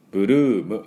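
"ブルーム" as bu-ru-u-mu, Japanese syllables; Japanese-accented bu-ruu-mu; katakana English. Shown as a demonstration. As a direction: say "ブルーム" with a vowel after b and m. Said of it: "カタカナ英語で言うと".

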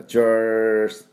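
チュース slow, tongue pulled back, squashed sound; teacher slowly modelling a squashed チュース. Shown as a demonstration. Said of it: "舌をちょっと引き加減に、あの、潰れたような".

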